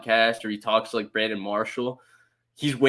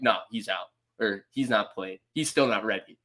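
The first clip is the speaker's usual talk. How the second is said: curt Kyle; 3 semitones lower than usual. Retold or imitated. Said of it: "it'll be so concise".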